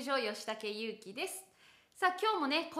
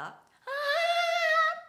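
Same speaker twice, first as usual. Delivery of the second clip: high strained cracking "ah"; 9 dB louder than usual. Shown as a demonstration. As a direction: push the "ah" up till it cracks. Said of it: "そんな感じになることないですか".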